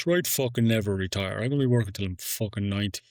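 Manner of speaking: a light Irish impression of Aaron Walsh, fast on the second line; mock Aaron Walsh Irish accent, quick and blunt. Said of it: "That's my best Aaron Walsh accent".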